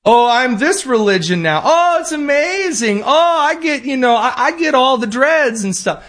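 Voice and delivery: very high, gushing mock voice; hammed-up sarcastic parody; mock convert. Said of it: "the Supreme Court said, "Yeah, you don't just get to claim".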